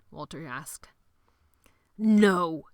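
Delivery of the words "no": sharp, loud angry no; spat. A narrator's reading. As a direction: spit the word out. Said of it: "Sebastian spat".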